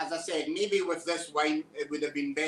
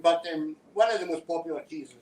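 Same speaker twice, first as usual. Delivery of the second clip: talking with a mouthful; mouth full. Real, not acted. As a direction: speak round a bite of biscuit. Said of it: "I'm speaking with my mouth full".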